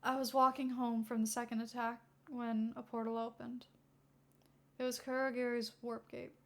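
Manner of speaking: flat, even, emotionless telling; monotone voice. Acted. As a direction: recount it numbly, no feeling. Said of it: "continues in the same monotone voice".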